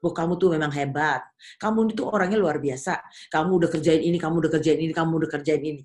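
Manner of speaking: low, coaxing voice of false praise; butter him up like a smooth seducer; flattering tempter. Retold or imitated. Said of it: "dia akan puji kita".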